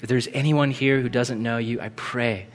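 gentle, subdued praying voice; closing prayer. Real, not acted. Preacher praying to God before the closing song, subdued prayer. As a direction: pray quietly and sincerely, easing down toward the amen.

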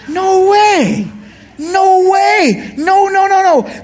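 high, loud repeated refusal; ringing emphatic denial. Real, not acted. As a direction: preach it with full force.

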